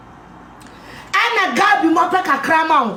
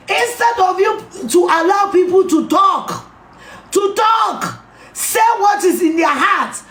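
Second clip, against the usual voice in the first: raised, shouting accusation; angry shout. Real, not acted. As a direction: shout it at the party. Angry political rant.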